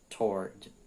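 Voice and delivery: "toward" as a single syllable, "tord", R pronounced; American pronunciation. Shown as a demonstration. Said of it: "no inglês americano é toward". ("toward" em inglês americano, soando "tord")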